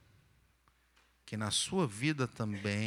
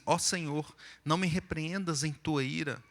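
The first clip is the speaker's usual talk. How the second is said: pleading psalm reading; 3 semitones higher than usual. Acted. Reads the psalm as a plea.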